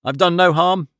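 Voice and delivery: high, defensive little protest; uneasy. Acted. Cornered trickster to angry detective, uneasy. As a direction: shrink back and plead innocence. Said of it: "Oldacre gave an uneasy laugh".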